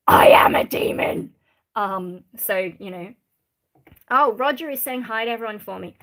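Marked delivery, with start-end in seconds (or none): 0.1-1.3 spooky whisper. Pretend. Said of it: "have I ever summoned a demon".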